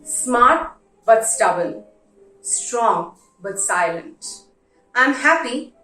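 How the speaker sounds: letter reading. Acted. Reads a father's letter aloud.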